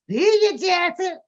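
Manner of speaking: high gleeful see you; mock cheerful farewell. Neighbor waving Jesse off to jail, gleeful goodbye. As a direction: wave him off gleefully. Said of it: "mock farewell to Jesse".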